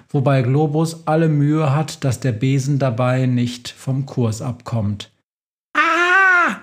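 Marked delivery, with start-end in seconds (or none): 5.7-6.6 high frightened squeal; sudden squeal of alarm; mouse squeak. Acted. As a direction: shriek like a tiny scared mouse. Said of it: "Quietscht die Maus wieder".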